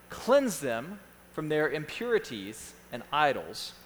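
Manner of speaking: slow, broken into short phrases; slow dictation. Real, not acted. Pastor reads a point for note-takers, slowly. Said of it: "I'm gonna read them slowly".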